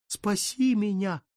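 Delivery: «Спаси меня» wailed high and slow; high plaintive wail. Acted. Count cries out to the Virgin, «Спаси меня» wailed high and slow. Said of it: "жалобно простонал он".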